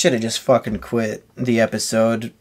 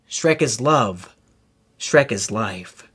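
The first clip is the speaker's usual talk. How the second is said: slow, lower reverent chant; solemn closing creed; 3 semitones lower, much slower than usual. Shown as a demonstration. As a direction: intone it slowly like a solemn vow. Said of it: "Shrek is Life voiceover".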